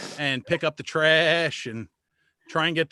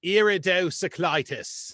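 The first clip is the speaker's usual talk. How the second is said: imitating an Indian accent; 3 semitones higher than usual. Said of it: "the way he said it and with the accent".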